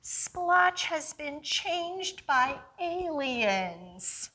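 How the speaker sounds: put-on high, loud child's cry, slowing on the news; a kid sure it was aliens; alarmed boy. Boy character calls to mother.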